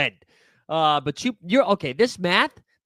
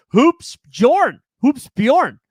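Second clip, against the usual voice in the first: excited shout-out; 8 semitones higher, 9 dB louder, much slower than usual. Real, not acted. Calling out a viewer's name.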